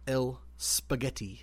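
"El spaghetti" said slowly as mock Spanish. Teaching Sadie "El spaghetti", slow mock Spanish. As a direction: draw out "El spaghetti" like a deadpan Spanish lesson. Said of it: "That's how you say it".

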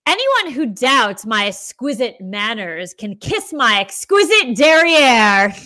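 put-on slow, prim and proper, over-enunciated posh accent. Host reading Sutton's tagline in a slow, prim and proper accent. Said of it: "Did you see the little accent I put on that".

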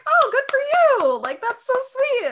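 put-on high, gushing valley-girl take on Alexis; bright high mock-sweet Alexis voice; Alexis impression. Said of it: "And Alexis is like".

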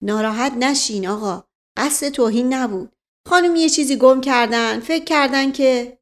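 calm the officer down; soothing. Acted. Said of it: "سعی کرد او را آرام کند".

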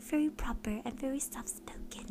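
soft-spoken proper British. Shown as a demonstration.

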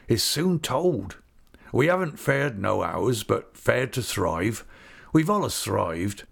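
rustic English dialect, contented; hearty old countryman. Acted. Old visitor starts telling his fortunes, contented rustic voice. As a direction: begin the tale like a proud old rustic. Peggotty begins his account.

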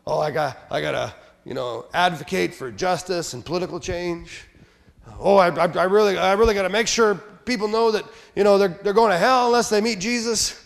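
lightly voiced zealot working himself up; mock zealous Christian. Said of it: "Sometimes people think".

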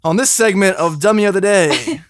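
slow, drawn-out show announcement; segment announcer. Pretend. Host opens Dummy of the Day segment, mock-announcer delivery. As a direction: announce it like a recurring radio bit.

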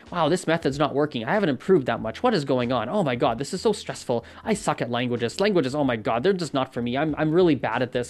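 mock panic, speeding up toward the end; hammed-up stressed learner; stressed rant. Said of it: "that little rant right there".

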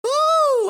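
very high, loud "ooh"; relieved falsetto whoop. Real, not acted. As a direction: let out a piercing whoop. Whoop after accent performance.

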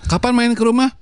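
high, lilting question; mock Japanese asker. Shown as a demonstration. Host acts out a Japanese person asking, lilting high. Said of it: "kalau ditanya orang pakai bahasa Jepang".

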